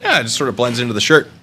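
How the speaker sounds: ordinary delivery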